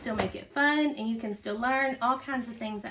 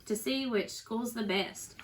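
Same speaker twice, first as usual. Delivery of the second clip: put-on lively storybook reading for kids; reading to children. A narrator's reading. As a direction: read it out to a little one, with bounce. Teacher reads picture book aloud.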